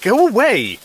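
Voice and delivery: loud, high shout to drive them off; irritated yell from a sleepless night; angry shout. Acted. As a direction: bellow it, furious at being pestered. Woken man shouts at intruder.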